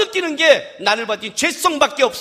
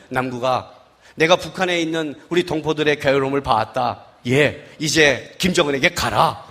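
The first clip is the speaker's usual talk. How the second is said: God speaking low; 12 semitones lower than usual. Retold or imitated. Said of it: "뭐라고 했냐면".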